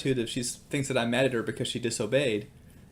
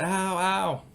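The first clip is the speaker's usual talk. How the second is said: retold pained cry; 8 semitones higher than usual. Daughter touches the hot grill, retold pained cry. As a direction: imitate a hurt child's yelp. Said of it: "screams and cries and says".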